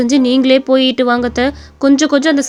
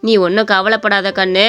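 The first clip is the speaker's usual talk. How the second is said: put-on lower, gentle old woman's voice; mother-in-law comforts her daughter-in-law, gently; kind old mother-in-law; 4 semitones lower than usual. (அன்பான வயதான மாமியார் குரல்)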